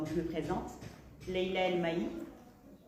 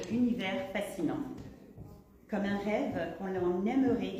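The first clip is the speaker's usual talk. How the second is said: measured literary recitation in phrases; poetic reading. Acted. Poet reads her introduction to the audience, poetic reading. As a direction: read it out as poetic prose, pausing between phrases.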